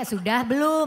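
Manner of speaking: "Sudah belum" with "belum" stressed; demonstrated intonation. Shown as a demonstration. Comedian repeating the intonation lesson, questioning "Sudah belum".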